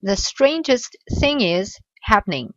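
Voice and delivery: slow, careful "The strangest thing is happening"; slow model reading. Shown as a demonstration. Teacher rereads the transcribed sentence slowly. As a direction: spell it out slowly for learners. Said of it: "j'ai transcrit la phrase".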